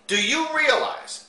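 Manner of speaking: a playful mock of an angry believer; mock angry complaint. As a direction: imitate someone huffing that they're so mad. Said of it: "When you get angry, you say".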